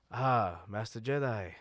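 a failed attempt at Cham Syndulla's voice; half-hearted impression of the rebel leader; attempt at Sham. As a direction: rebel leader greeting a Jedi, lightly voiced. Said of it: "I was trying to do Sham".

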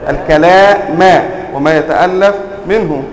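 "الكلام" ending in a clear -a; accusative ending. Shown as a demonstration. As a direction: say "الكلام" as al-kalāma with the final a. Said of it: "أنطق بها منصوبة فأقول".

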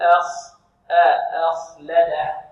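drawn-out, careful أخلده, parts first then whole; light hamza, heavy kha. Shown as a demonstration. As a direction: slowly model أخ, thin a then thick kha. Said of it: "بل نقول".

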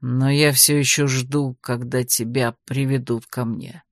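low, composed male character's line; calm. A narrator's reading. Anakh coolly drops a parting line to the heroine, calm and low. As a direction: say it low and unhurried by feeling. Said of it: "спокойно проронил Анах".

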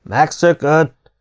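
high, drawn-out cry; shouted accusation. A narrator's reading. Another soldier crying that the major escaped, shouting. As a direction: cry it out slowly from the crowd. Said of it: "hangzott egy másik kiáltás".

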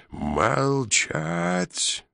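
high, barked order; shouted command. A narrator's reading. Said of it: "заорал офицер".

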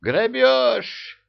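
high indignant cry of outrage; outraged emir. Acted. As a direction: yelp it like a robbed merchant. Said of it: "возмутился эмир".

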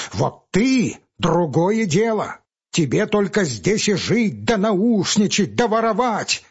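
high, scornful and slow; defiant young man. Acted. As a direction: throw his contempt at him. Pavel defies the clerk.

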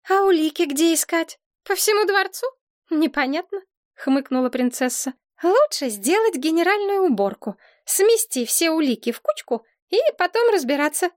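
put-on high, girlish princess voice; high girlish princess, pleased with herself. A narrator's reading. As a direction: play the proud little princess.

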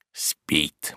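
low, hushed aside; whispered. A narrator's reading. Servant at his sleeping master's study door, whispered. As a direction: murmur it under your breath. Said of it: "прошептал он".

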